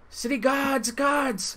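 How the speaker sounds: very high, shrieking, alarmed screaming. Voicing a character who spots an intruder and starts screaming out. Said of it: "starts screaming out".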